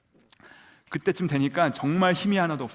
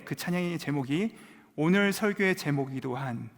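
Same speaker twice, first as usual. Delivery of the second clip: normal talking voice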